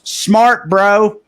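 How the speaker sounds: mocking the pedestrian, sarcastic; sarcastic jab. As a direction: sneer it out the car window. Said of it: "she goes".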